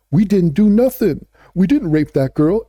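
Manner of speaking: lightly mimicked suspect pleading innocence, pitch slightly lifted; a hint of a defensive suspect's voice; mock denial. Mimicking accused men denying an assault, lightly acted mock denial.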